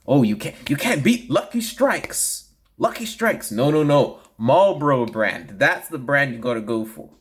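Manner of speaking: bright, eager vintage pitchman; chipper 1950s ad. Retold or imitated. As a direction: sell it like an old radio ad. Old cigarette ad pitch.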